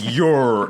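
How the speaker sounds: "your" stretched into an exaggerated yoour; drawn-out meme pronunciation. Shown as a demonstration. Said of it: "you're saying it wrong".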